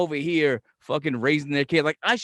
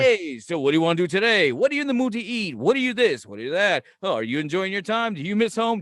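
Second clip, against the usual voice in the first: higher-pitched, pestering questions; eager host; 4 semitones higher, 3 dB louder than usual. Acted. Uncle trying to entertain his visiting nephew, over-eager. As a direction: fuss over a guest, one question after another. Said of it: "I gotta entertain the whole time".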